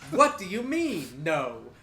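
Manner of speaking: indignant ogre. Acted. Ogre challenging the bartender's refusal, in indignant disbelief. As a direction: act an ogre-like brute who's been refused. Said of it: "And he goes".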